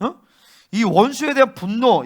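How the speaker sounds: ordinary talk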